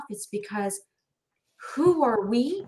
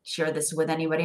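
confiding quietly; 4 semitones lower, 5 dB quieter, faster than usual. Retold or imitated. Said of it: "she's like".

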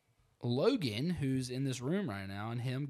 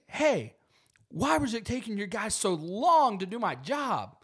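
customer voice, much higher; 11 semitones higher, 9 dB louder than usual. Retold or imitated. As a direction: mimic the annoyed customer high. Customer voiced, high pitch.

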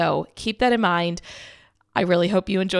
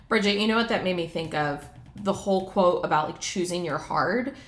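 underwater; 2 semitones lower than usual. Real, not acted. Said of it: "kinda sounds like I'm underwater".

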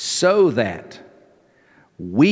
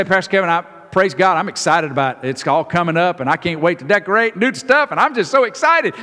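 excited congregant; 5 semitones higher, faster than usual. Retold or imitated. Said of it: "if you say".

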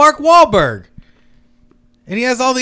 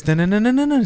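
quick staccato "dun-dun-dun" effect; imitated bionic jump sound; 2 semitones lower, 5 dB quieter, faster than usual. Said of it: "I hear this".

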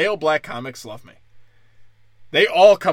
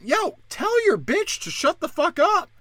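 higher yelled demand; 12 semitones higher than usual. Retold or imitated. Addressing man in audience.

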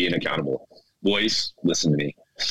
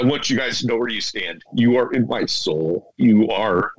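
holding back tears. Real, not acted. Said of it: "I'm not gonna cry like this anymore".

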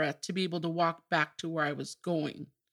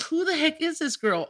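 surprised; 9 semitones higher than usual. Retold or imitated. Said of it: "I'm just like".

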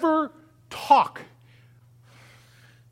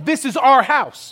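firm claim; 3 semitones higher, 5 dB louder than usual. Acted. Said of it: "When you walk in your home".

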